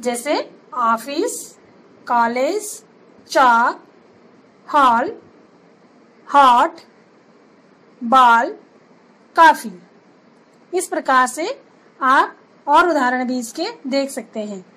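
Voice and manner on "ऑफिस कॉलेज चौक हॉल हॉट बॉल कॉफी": ऑफिस कॉलेज हॉल with the open rounded ऑ of English; अंग्रेज़ी वाली ऑ ध्वनि में; English ऑ sound. Shown as a demonstration. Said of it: "अंग्रेजी भाषा से लिए गए कुछ शब्दों में".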